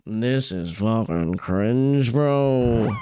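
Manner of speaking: scornful inner voice. Retold or imitated. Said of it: "I'd be thinking".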